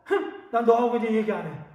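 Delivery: huffy, sulking refusal with a loud "흥"; acted angry huff. Pastor demonstrates getting mad and refusing to talk, mock angry huff. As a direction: play an offended child cutting off a friend. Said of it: "화를 내고".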